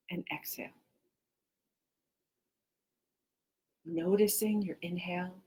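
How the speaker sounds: unhurried meditation guide with long pauses; guided meditation. Real, not acted. Teacher guiding listeners to notice inhale and exhale, guided meditation. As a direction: lead them gently through the breath, phrase by phrase.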